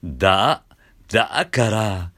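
だから eased up from a creak; spoken scoop. Shown as a demonstration. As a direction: slide lightly into だから. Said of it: "音程がちょっとついてる".

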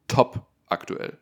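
"Top aktuell" whispered, slow. Shown as a demonstration.

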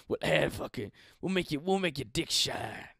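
mock sales announcer, punching the selling words; lightly hammed-up commercial parody; ad pitch. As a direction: hawk it like a cheesy online ad. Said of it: "that's what the ads will say".

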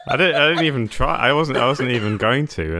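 loud, laughing protest. Real, not acted. Laughing at own slip.

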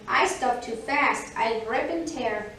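lightly voiced, emphatic rabbit; mild protest from a storybook rabbit; rabbit character. Rabbit's excuse against tortoise's.

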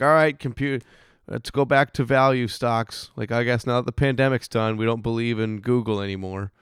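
lightly hammed-up investor quote; mock investors. Mocking investors in an acted quote.

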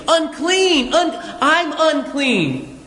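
high, drawn-out mock cry; acted warning call, slowing at the end. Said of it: "calling out in a loud voice".

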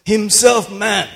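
"Himself" high and drawn out; emphasis on himself. Shown as a demonstration. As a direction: punch "Himself" slowly before "man". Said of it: "I like that emphasis".

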